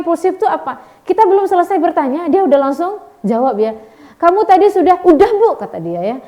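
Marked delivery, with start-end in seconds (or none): 4.2-5.0 lecturer's question, louder and higher, broken off; cut-off question. Retold or imitated. Lecturer's question gets interrupted. 5.0-5.6 student blurts in louder and higher; impulsive quick answer. Retold or imitated.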